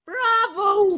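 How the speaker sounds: high, ringing cheer; a delighted donkey applauding the noise; loud bravo. Acted. Ass cheers the cock.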